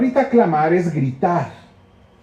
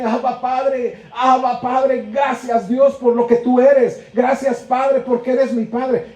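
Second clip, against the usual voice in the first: higher, slow, tearful grateful cry; crying out for joy; 4 semitones higher, slower than usual. Acted. Preacher voicing a child crying to the Father, tearful and joyful. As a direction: pour out thanks like a child overwhelmed. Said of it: "que nos hace llorar y decirle".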